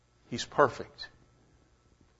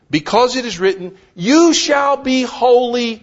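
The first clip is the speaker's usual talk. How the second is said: quoting scripture loudly; 8 semitones higher, 5 dB louder than usual. Retold or imitated. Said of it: "Peter says".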